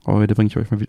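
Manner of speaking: words cut off by choking; swallowed wrong mid-sentence; choking on a drink. Real, not acted. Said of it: "Das war verschluckt".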